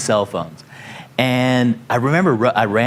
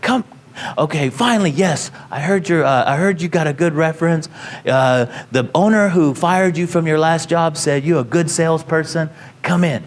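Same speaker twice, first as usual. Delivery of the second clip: put-on Hawaiian accent; 5 semitones higher than usual. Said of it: "I'm doing a Hawaiian accent".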